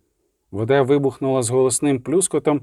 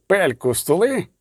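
drawn-out, higher-pitched mock shriek; 4 semitones higher than usual. A narrator's reading. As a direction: screech it slowly without real volume. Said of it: "вириснув лисий". (протяжний, стриманий вереск)

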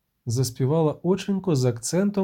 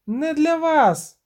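much higher, louder, slow wail; shrill cry; 13 semitones higher, 4 dB louder, much slower than usual. Acted. The siren wails her last warning before diving, high and loud. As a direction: cry it out as she dives. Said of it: "зойкнула Шейнас".

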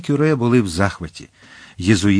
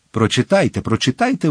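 eager exclaim; 2 semitones higher than usual. Acted. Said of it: "вигукнув Дартаньян".

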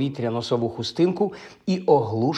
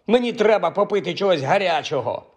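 higher, insisting on треба попити чогось гарячого; indignant demand; 6 semitones higher than usual. A narrator's reading. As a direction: repeat the demand, now put out. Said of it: "обурився Хаул". (обурено, наполегливо)

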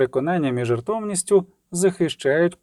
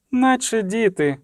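exasperated sigh; 7 semitones higher, slower than usual. A narrator's reading. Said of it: "зітхнула Тісая де Фрейс".

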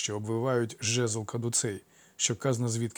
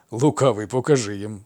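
louder, with a touch of suppressed amusement; barely holding back laughter; 7 dB louder than usual. A narrator's reading. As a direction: say it trying not to burst out laughing. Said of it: "ледве стримавшись, щоб не розсміятися". (ледь стримуючи сміх)

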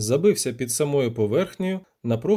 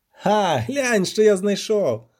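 high, drawn-out exclamation; louder, higher triumphant cry; excited discovery; 6 semitones higher, 4 dB louder, slower than usual. A narrator's reading. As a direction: show off a find with glee. Poet shows off his find.

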